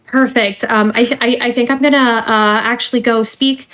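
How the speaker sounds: polished corporate trainer voice; cheerful company onboarding spiel; customer service voice. Acted. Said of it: "let me put away my customer service voice now".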